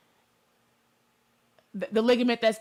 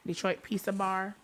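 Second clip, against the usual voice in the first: soft Detroit accent, everyday way; 7 dB quieter than usual. Shown as a demonstration. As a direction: say Detroit Pizza Bar in a Detroit accent. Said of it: "Let me say it in my regular Detroit accent".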